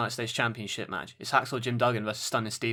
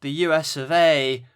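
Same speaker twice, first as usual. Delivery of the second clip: loud, slow patriotic wrestler bellow ending in a yell; Jim Duggan impression; 5 semitones higher, 7 dB louder, much slower than usual. Co-host requested Jim Duggan, so a loud slow patriotic bellow. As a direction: boom it out like a flag-waving brawler. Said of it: "talk like Jim Duggan".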